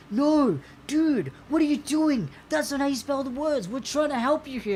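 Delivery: high-pitched, protesting computer helper; exasperated Google Docs. Pretend. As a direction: plead as a fed-up spellchecker. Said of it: "must have been looking at me going".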